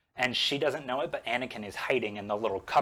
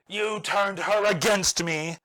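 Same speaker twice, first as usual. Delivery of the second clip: accusing; 6 semitones higher, 3 dB louder than usual. Retold or imitated. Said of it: "And Anakin is like".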